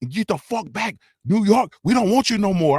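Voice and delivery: high-pitched mimicry of a confrontational young woman; mock tough-girl New York attitude; Scarlett impression. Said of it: "young lady talking like this".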